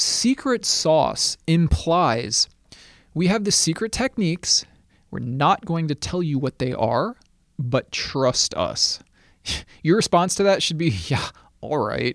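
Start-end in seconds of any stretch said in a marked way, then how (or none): 11.1-12.2 dripping sarcasm, unconvinced and dismissive. Discussing claims of secret techniques, showing how listeners should respond, sarcastic 'yeah, all right'. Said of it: "that was sarcasm".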